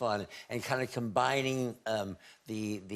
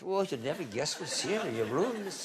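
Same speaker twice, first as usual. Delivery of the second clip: bad Scottish accent; 4 semitones higher than usual. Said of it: "I can't do a Scottish accent".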